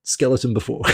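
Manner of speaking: lightly put-on South African accent; a hint of South African rugby mate. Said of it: "he says in the South African voice".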